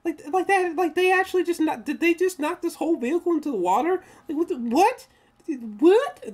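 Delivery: replayed disbelief. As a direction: relive the jaw-drop moment, loud and high. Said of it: "I was like".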